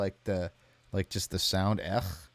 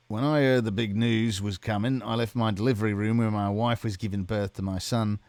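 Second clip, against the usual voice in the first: botched British accent, projected and louder; hammed-up, unconvincing British accent; bad British accent; 2 semitones higher, 5 dB louder than usual. Shown as a demonstration. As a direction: attempt a British accent and miss. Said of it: "I'll read the next question in a bad British accent".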